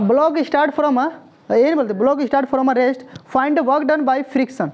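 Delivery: slow, word by word, for students to write; slow dictation. Shown as a demonstration. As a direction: dictate the question slowly. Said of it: "लिखो, question लिखो".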